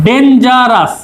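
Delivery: "ডেঞ্জারাস" said carefully, its three syllables lightly separated; measured syllables. Shown as a demonstration. Teacher asking students to count syllables, "ডেঞ্জারাস" carefully sounded out. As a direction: sound out "ডেঞ্জারাস" as ডেন-জা-রাস without long gaps. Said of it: "কটা syllable আছে?".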